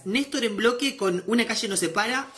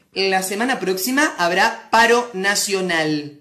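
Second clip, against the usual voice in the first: slow, measured news delivery; imitation of a news presenter; newsreader voice; 3 semitones lower, 3 dB louder, slower than usual. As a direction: put on a TV newscaster voice. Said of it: "ponen otra voz".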